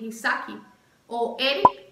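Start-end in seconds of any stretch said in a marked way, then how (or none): 0.0-0.6 "Isaki" with an added final i; Isaac said as "Isaki"; Brazilian pronunciation. Shown as a demonstration. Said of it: "aquí es".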